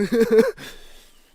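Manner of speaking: real high, loud burst of laughter. Real, not acted. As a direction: crack up at your own story. Laughs at his own story.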